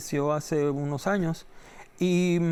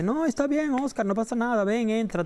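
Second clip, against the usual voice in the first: lightly acted friendly reassurance, pitched higher; very kind; 6 semitones higher than usual. Spielberg welcoming a nervous interviewer in, imitated kindly reassurance. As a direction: put him at ease in a higher, kindly voice. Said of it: "él muy amable dice".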